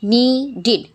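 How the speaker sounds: needed in two clear beats, "nee-did". Shown as a demonstration. Teacher showing past-tense ED sounds, needed said "nee-did". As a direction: end needed on a full "id". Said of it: "Examples of I D".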